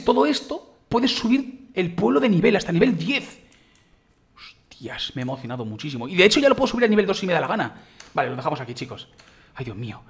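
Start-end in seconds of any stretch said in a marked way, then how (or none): 4.3-6.1 whispered in quiet amazement; amazed whisper. Real, not acted. Gamer seeing the village rewards, whispering in amazement. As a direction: breathe the word out, stunned.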